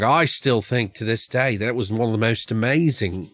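a put-on British accent that slides toward Australian; lightly voiced British interviewee, a bit off; mock British accent, half Australian; fake British accent. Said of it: "This is my fake British accent".

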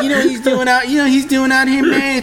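high incredulous voice through laughter; laughing clerk impression. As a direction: squeal it out in disbelief, laughing. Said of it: "He's like".

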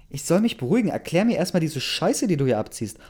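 heated quarrel voice, starting high; indignant outburst. A narrator's reading. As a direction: throw the demand back, outraged. Angry retort in acted quarrel.

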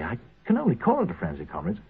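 ordinary talk

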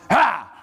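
startling bark back. Retold or imitated. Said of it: "rolls it over and goes".

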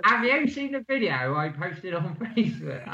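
amateur Cockney breaking into laughter; wobbly mock Cockney; Cockney accent. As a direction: read it in Cockney, cracking up. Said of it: "say some Cockney again".

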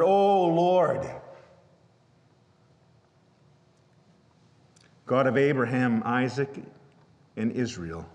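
straightforward earnest prayer, falling to hushed at the end; Elijah's plain prayer. Retold or imitated. Elijah calling on God before the prophets, earnest prayer. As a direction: pray simply and directly. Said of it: "very succinct and very straightforward".

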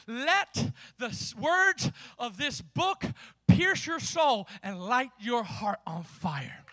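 slow, weighty exhortation; drawn-out preacher's charge; impassioned preaching. Real, not acted. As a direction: stretch each phrase for the congregation.

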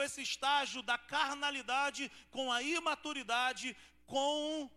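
the preacher thunders out the point; preaching at full force. Acted. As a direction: pastor hammering home spiritual immaturity.

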